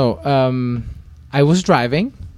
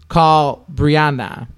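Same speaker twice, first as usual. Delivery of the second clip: slow annoyed command; 4 semitones higher, 5 dB louder, much slower than usual. Retold or imitated. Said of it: "I was getting so angry".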